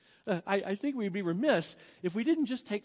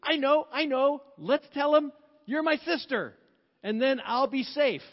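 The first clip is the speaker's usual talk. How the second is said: scheming Abraham; 4 semitones higher, 4 dB louder than usual. Retold or imitated. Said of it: "And so Abraham's like".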